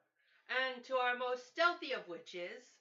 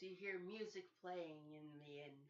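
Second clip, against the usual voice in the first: normal talking voice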